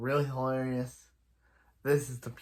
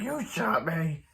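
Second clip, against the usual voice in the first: drawn-out, higher-pitched complaint; mock accusation; 4 semitones higher, slower than usual. Wounded robber blames the stretchy hero, mock accusation. Acted quarrel over a shooting.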